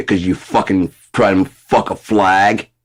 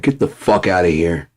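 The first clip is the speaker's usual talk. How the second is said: mock furious telling-off. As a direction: chew him out with contempt. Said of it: "they'd be like".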